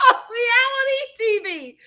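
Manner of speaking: laughing through the words; cracking up while repeating it. Real, not acted.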